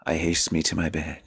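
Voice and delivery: measured, slowed verse reading; sonnet recitation. Shown as a demonstration. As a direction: recite it like Shakespeare.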